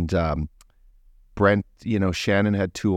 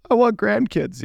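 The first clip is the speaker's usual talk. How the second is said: high, louder plea in a mock mom voice; imitating upset mom; 13 semitones higher, 4 dB louder than usual. Son imitating his crying mom wanting grandkids, high mock plea. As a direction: play the mom's tearful wish, lightly hammed.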